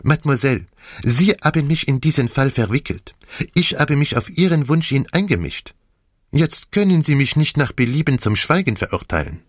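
put-on French-accented detective, insistent reproach; Poirot. Detective reproaches Mademoiselle, insistent French accent. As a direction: refuse firmly with a French lilt.

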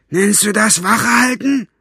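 loud, high-pitched angry rebuke; Basta. A narrator's reading. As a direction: berate a sleeping guard from outside the door. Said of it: "Das war Bastas Stimme".

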